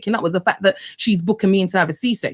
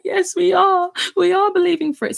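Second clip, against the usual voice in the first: eager yes; 10 semitones higher than usual. Retold or imitated. Answering husband's faith challenge.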